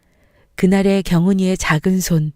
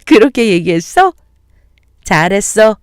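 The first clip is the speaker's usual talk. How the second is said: amused praise; 3 semitones higher, 5 dB louder than usual. Acted. Mother laughs, praises son.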